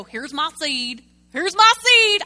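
slow, then a loud high wail; self-pitying believer. Retold or imitated. Preacher mimicking a believer showing off a dead seed, mock wail. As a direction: drag it out, then cry it out.

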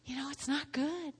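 soft, tender plea from a spouse; gentle spouse plea. Retold or imitated. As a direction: plead gently and softly. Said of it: "lovely wife or husband that says".

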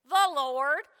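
called out loud; loud answer. Acted. Pastor answering his own question, loud. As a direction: belt out the answer.

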